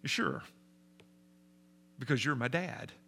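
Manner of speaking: put-on calm, matter-of-fact child's reply; imitating a calm, trusting son; remarkable calmness. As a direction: answer simply and unruffled, in an everyday pitch. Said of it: "he responded with remarkable calmness".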